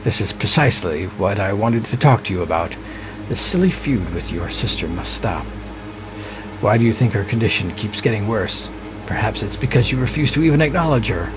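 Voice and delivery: a hint of a stern mother, reading the lines; lightly voiced stern mother urging peace. Mother scolds son in game dialogue.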